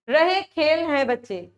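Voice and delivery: "रहे खेल हैं बच्चे" said slowly, words deliberately jumbled; slow, deliberate read of the jumbled "रहे खेल हैं बच्चे"; scrambled word order. Shown as a demonstration. Teacher showing children a wrong sentence, slow and deliberate. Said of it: "अगर मैं इसको ऐसे बोल देती हूँ".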